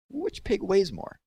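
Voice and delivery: put-on airhead girl. A narrator's reading. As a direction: drag it out like a girl with nothing in her head. Empty-headed Myra asks.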